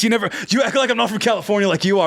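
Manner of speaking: fast, hammed-up California surfer accent; mock California accent. To the co-hosts, a fast mock California accent. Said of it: "Great accent".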